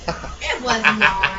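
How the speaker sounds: laughing through the words; giggling denial. Real, not acted.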